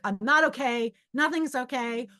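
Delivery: a touch of frantic upset; retold distraught outburst. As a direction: let it spill out in acted distress. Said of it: "let it myself out".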